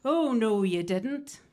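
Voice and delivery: mock pantomime call-out; pantomime shout. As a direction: call it back like a panto audience. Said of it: "overwhelming urge to shout".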